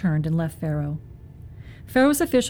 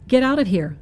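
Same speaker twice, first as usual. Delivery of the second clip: a loud narrated shout, pitched up; 5 semitones higher, 4 dB louder than usual. A narrator's reading. Pharaoh shouting Moses out of his court, loud and high. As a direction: throw him out with a loud cry. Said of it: "Pharaoh shouted at Moses".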